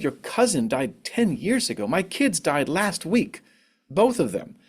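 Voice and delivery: mildly indignant, weighing each word; indignant inner retort. Retold or imitated. Bereaved mother silently answering someone's cousin story, mildly indignant.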